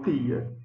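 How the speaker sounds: "tia" with a plain hard t; t dental. Shown as a demonstration. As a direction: say "tia" like "tee-a", without ch. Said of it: "seguindo esse padrão de pronúncia". ("tia" com t seco)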